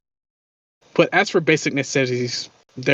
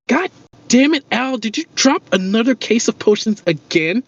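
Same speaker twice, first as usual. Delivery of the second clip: exasperated woman yelling; 8 semitones higher than usual. Acted. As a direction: snap at him, fed up with the breakage. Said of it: "hear a woman's voice".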